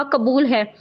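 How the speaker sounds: forced through clenched teeth, barely held anger; through gritted teeth. Acted. Groom accepting the marriage he resents, through gritted teeth. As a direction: grit your teeth and push the words out. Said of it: "दांत बींच कर कहा".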